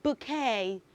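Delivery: "bouquet" said "boo-KAY", soft and falling; teacher's careful "bouquet" as "boo-kay"; correct pronunciation. Shown as a demonstration. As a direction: model the right form gently. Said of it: "The right pronunciation of that word is".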